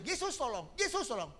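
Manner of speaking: high urgent prayer for help; desperate plea. Shown as a demonstration. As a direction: cry out to Jesus as a suffering man. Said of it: "Lebih baik kamu panggil".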